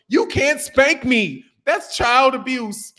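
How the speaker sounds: imitating his son. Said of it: "my son said something".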